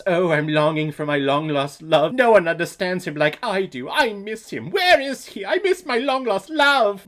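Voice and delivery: over-the-top melodramatic longing, mocking; mock swooning damsel. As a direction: parody a pining damsel in distress. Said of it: "the classic damsel in distress".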